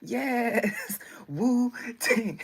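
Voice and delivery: loud mock-Chinese cry with a falling end; mock Chinese accent. Streamer repeating a fan's band name, mock Chinese accent. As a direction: call it out in a jokey imitation Chinese accent. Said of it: "saying it like Chinese people".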